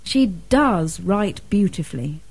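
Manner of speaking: "does" stressed as praise; exclamatory emphatic DOES. Shown as a demonstration. Student gives a second exclamation, stressing "does". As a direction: put the weight on "does". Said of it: "Another use of the emphatic do".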